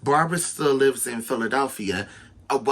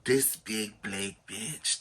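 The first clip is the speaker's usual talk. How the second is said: imagined sneer; 6 semitones lower, 10 dB quieter than usual. Retold or imitated. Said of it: "everybody in the class is looking like".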